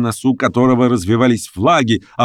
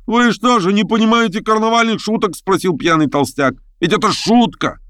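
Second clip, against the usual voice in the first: much higher, jovial tipsy voice; drunk fat reveller; 12 semitones higher than usual. Acted. Drunk fat man mocks the strangers, jovial. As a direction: tease them like a drunk masquerader.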